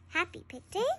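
confused reply to the cheer; puzzled question. Acted. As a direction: ask it back, unsure what it means. Gerald asking back, puzzled.

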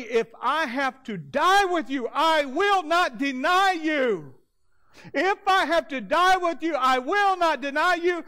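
very high, loud vehement protest. Acted. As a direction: cry it out like a vow. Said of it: "spoke more vehemently".

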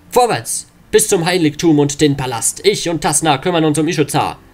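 rally the troops forward; battle command. Acted. Leader charges forward.

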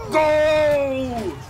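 a loud barked go; shouted order. Pretend. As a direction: drive the troops forward. Urging troops forward.

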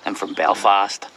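demonstrating a Belfast accent. Shown as a demonstration. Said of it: "what do you think a Belfast accent sounds like".

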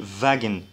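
فاجن, voiced v as the first sound. Shown as a demonstration. Teacher showing the letter's sound, v at the start of فاجن. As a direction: say فاجن opening with an English v. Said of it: "زي الفي بالإنجليزي".

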